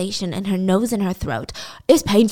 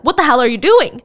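startled shout; 5 dB louder than usual. Retold or imitated. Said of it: "She's like".

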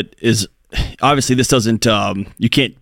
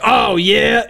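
dismissive; 9 semitones higher than usual. Retold or imitated. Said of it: "real easy for you to be like".

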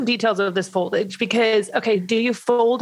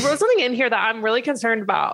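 quick, laughing tease; laughing while talking; 2 semitones higher, faster than usual. Real, not acted. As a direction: laugh through the line. Laugh heard in line.

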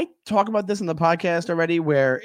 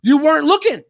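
mock scolding driver; 7 semitones higher, 5 dB louder than usual. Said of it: "he goes".

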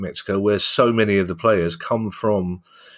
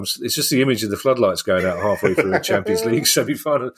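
laughing. Real, not acted. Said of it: "I'm gonna struggle to say it without laughing".

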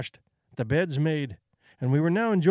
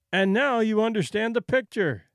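mild exclamation; 5 semitones higher than usual. Acted. Narrator to Sitka Charlie, claiming a point, mildly excited. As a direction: announce it as if proven. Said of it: "I cried".

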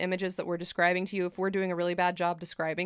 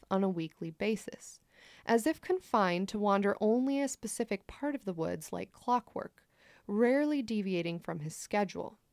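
story narration. A narrator's reading.

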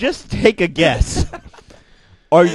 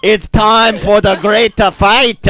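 mock prophet voice; 4 semitones higher, 4 dB louder than usual. Continues the put-on bit.

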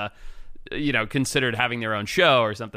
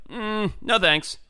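breezy refusal; 9 semitones higher, much slower than usual. Retold or imitated. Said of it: "And I was like".

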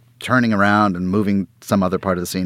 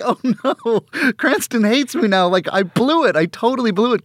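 retold panic; 3 dB louder than usual. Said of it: "and I was like".

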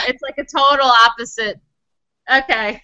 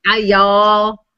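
low, loose, lightly tipsy "y'all"; a bit drunk; 6 semitones lower, much slower than usual. Shown as a demonstration. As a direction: have a go at sounding slightly drunk. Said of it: "without sounding just a little bit drunk".

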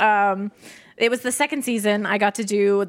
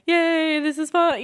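higher-pitched mock enthusiasm; half-hearted cheer; 6 semitones higher, much slower than usual. Shown as a demonstration. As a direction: token cheer, standing stiffly at the mic. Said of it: "just stand there going".

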